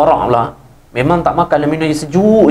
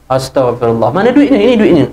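dismayed scolding. Acted. Imam scolds worker over sale.

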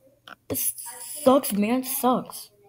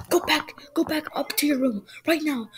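angry whisper; 4 semitones higher than usual. Acted. Mom sending child upstairs.

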